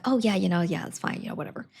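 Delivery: casually dismissive squire; dismissive shrug. Retold or imitated. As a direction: brush off her fears. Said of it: "her squire's like".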